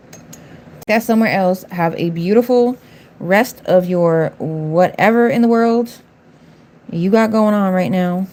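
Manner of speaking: slow, sugary mock-polite send-off; sarcastic dismissal. Real, not acted. Streamer sweetly dismissing a rude viewer, slow mock-polite. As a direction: kill her with fake sweetness.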